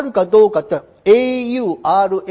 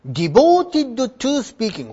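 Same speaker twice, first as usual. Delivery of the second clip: "Devoted" stressed, whole phrase slow; slow emphatic reading; 2 semitones higher, much slower than usual. Shown as a demonstration. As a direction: hammer home "Devoted to speaking" slowly. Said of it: "ここです". (「Devoted」を強調してゆっくり)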